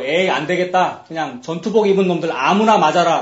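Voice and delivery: acted frustrated outburst; mock exasperation. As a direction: throw it out loudly, giving up on aiming. Acted frustrated archer giving up aiming.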